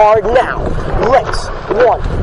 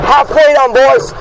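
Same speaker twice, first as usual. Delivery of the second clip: urgent coxswain calls; 4 semitones higher than usual. Real, not acted. Cox pushing crew mid-race.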